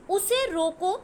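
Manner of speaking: "उसे रोको" set apart as a whole phrase; firm "रोको" followed by a break; stop after रोको. Shown as a demonstration. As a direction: say उसे रोको, then halt at the comma. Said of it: "उसके बाद विराम चिन्ह यहाँ पे लगा".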